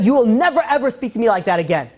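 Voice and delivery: imitating an offended king laying down the law; snapped. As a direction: hit NEVER high, retold outrage. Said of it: "he's, he just snapped".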